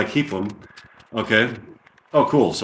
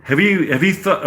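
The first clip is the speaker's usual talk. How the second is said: put-on English accent, higher pitch; 6 semitones higher than usual. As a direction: try the line in amateur British. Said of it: "with a English accent".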